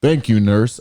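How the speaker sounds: lightly voiced doctor; put-on doctor voice. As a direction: answer as a doctor, slightly put on. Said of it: "the doctor talks like this now".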